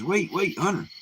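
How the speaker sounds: high, sudden call of a small talking snake; high wheedling snake call. Acted. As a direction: stop him in his tracks in a high creature voice. Talking snake calls out to hunter.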